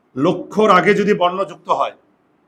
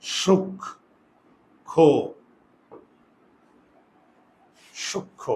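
sounding out in a whisper; 4 dB quieter, much slower than usual. Shown as a demonstration. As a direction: whisper সূক্ষ্ম syllable by syllable as sukkho. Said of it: "দীর্ঘকার হবে".

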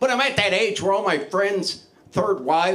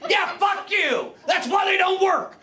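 joking shout; 9 semitones higher than usual. Acted. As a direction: laughingly bark it at the audience. Heckling the audience jokingly.

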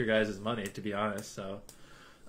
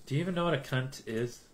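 ordinary talk

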